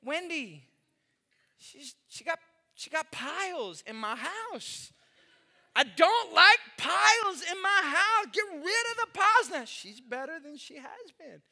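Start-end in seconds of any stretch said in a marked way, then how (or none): 5.7-9.5 frustrated shout. Retold or imitated. Pastor venting about piles in his house, loud mock outburst. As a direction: blurt out the annoyance, louder.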